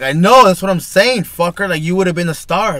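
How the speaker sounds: loud and clipping on the mic; too close to mic. Real, not acted. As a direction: lips right on the microphone, overloading. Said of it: "You're too close to the mic".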